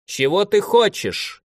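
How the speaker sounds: high, slow call through the gap; calling out, voice pitched high and drawn out; shouted through a gap. Acted. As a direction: call it out high toward the enemy. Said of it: "крикнула в щель".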